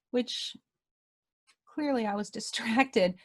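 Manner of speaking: breathy whispered admission, half laughing; whispered aside. Real, not acted. Telling listeners she was distracted, in a laughing whisper.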